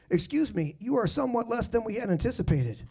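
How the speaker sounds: overly polite prim heckle; lightly voiced, courteous church-going heckler; Mormon heckler. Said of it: "my impression of a Mormon heckler".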